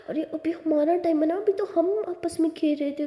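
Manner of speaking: high-pitched, put-out complaint; mildly whining objection; whiny protest. Acted. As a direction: protest like a sulky girlfriend. Girlfriend protests losing their time together.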